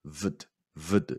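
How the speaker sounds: Vd said very soft and light, no full vowel; Vd, vd whispered light, no vowel; weak ved ending. Shown as a demonstration. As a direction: barely voice the vd. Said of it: "약하게 발음을 해주시고".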